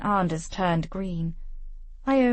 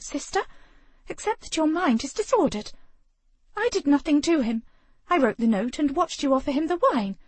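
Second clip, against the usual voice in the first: high, fast, rattled denial; defensive denial; 6 semitones higher than usual. Acted. Penelope defends herself against her sister, high and fast. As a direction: deny it in a rush.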